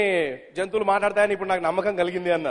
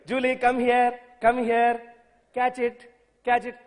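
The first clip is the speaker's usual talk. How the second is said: put-on baby talk to pet; 3 semitones higher, much slower than usual. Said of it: "కుక్కతోనేమో ఇంత ముద్దుగా మాట్లాడతారు".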